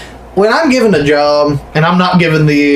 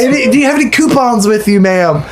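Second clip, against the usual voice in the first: higher, bright mock cashier voice asking about coupons; chipper clerk voice; 5 semitones higher than usual. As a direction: play the oblivious checkout clerk.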